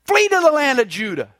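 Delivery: mock angry king ordering him away; a hint of a furious king. King Amaziah driving the prophet out, mildly angry. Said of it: "he says".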